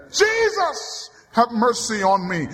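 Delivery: prayer on the highways; pleading cry. Acted. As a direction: cry the name, then beg. Prayer cried out.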